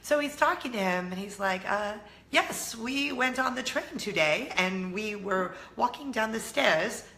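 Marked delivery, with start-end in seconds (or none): 2.3-7.0 slow, badly done French accent; attempted French accent. Imitating husband chatting with a restaurant manager, attempted French accent. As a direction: put on a French accent, drawn out and deliberate. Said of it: "like, a French accent".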